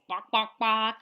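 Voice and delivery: clucking like a chicken; chicken sound. Shown as a demonstration. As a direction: do the chicken noise. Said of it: "Chicken says hello like this".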